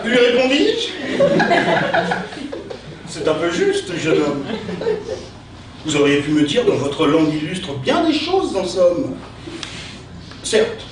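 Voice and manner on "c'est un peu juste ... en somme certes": hammy stage actor reciting grandly; Cyrano style. Acted. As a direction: declaim like a theatrical Cyrano. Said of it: "utiliser son style".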